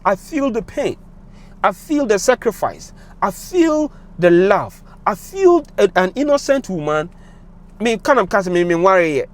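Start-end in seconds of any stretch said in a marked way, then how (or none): 0.0-7.1 slow, heavy-hearted, drawn out; a touch of real emotion, very slow; emotional. Real, not acted. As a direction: let each feeling sink, slowly. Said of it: "I'm a little bit emotional".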